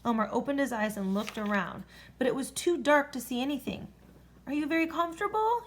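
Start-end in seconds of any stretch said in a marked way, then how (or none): 4.4-5.6 shouting. A narrator's reading. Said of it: "he screamed above the noise".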